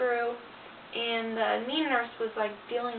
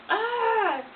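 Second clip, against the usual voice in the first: exasperated groan; 10 semitones higher, 4 dB louder than usual. Real, not acted. Groans while recalling being checked.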